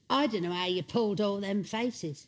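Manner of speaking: quoting a fan while laughing; laughing quote. Retold or imitated. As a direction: say it through a laugh. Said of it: "And she went".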